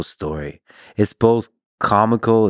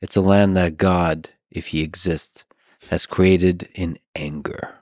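put-on German accent; 2 semitones lower, slower than usual. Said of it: "Said in a German accent".

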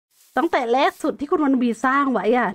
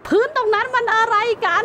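annoyed viewer; 9 semitones higher than usual. Pretend. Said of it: "หลายคนอาจจะขัดใจ".

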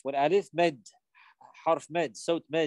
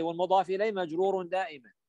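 quick rule recital; faster than usual. Shown as a demonstration. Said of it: "صح؟".

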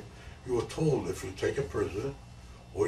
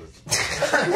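rueful chuckle at himself; laughing; 6 dB louder, slower than usual. Real, not acted. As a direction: say it amused, tipping into a big laugh. Laughs at his own past stupidity.

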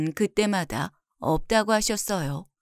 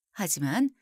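ordinary delivery

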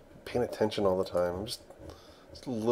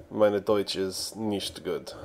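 mock German; slower than usual. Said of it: "I should know, I just barely passed German three".

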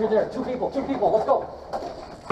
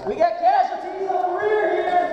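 shouted callout. Real, not acted. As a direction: shout over gunfire. Combat callout to squad.

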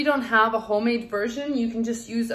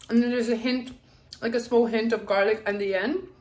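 talking through a mouthful of food; mouth full. Real, not acted. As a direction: speak around a bite of sandwich. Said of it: "I'm talking with my mouth full".

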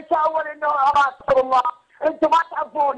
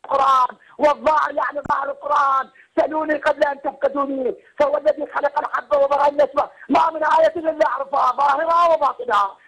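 suddenly louder, forceful declaiming; loud outburst. Real, not acted. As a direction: burst back in over the line. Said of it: "صوتك يقطع بعدين تطلع فجأة". (ارتفاع مفاجئ في الصوت)

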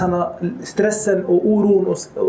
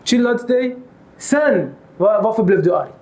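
soothing calm. Retold or imitated. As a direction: talk him down kindly. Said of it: "Nej, lugna ner honom".

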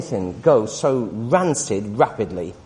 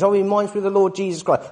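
mock pious gush; 2 semitones higher, faster than usual. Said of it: "full of these cliche things".

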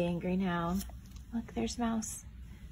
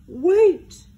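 loud, high desperate wait; crying out; 8 semitones higher, 13 dB louder than usual. Acted. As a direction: call out to stop him leaving. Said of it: "cried Bear".

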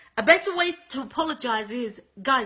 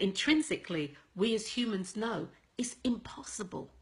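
whisper; 2 semitones lower, 7 dB quieter than usual. Real, not acted. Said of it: "drops to whisper".

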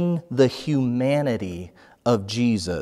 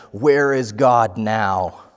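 calling out slowly; 3 dB louder, slower than usual. Retold or imitated. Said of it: "I heard the man call again".

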